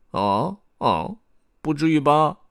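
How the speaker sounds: high, squeaky protest; Beiliao. A narrator's reading. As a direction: react with squeaky disbelief. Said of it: "贝利奥说".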